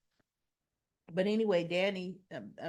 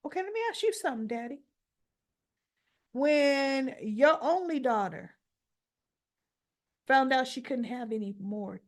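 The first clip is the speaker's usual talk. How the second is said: mock confrontation; 4 semitones higher than usual. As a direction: throw each question at him. Imagined daughter confronting father.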